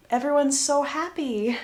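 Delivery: lightly sing-song false cheer; understated ironic brightness; mock happy. Narrator summing up the tense household, mock happy.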